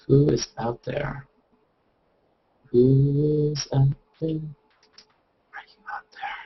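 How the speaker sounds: spooky séance whisper; eerie summoning call. Pretend. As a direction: coax a ghost out of hiding. Calling into the hangout room.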